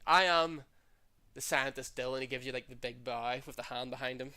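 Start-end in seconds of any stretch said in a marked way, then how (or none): 0.1-2.1 mad scientist voice. Acted. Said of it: "you both, like".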